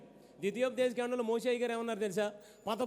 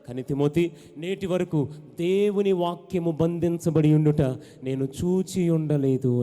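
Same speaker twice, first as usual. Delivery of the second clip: forceful apostle's words; 5 semitones lower, 9 dB louder, slower than usual. Acted. Paul's letter voiced with force.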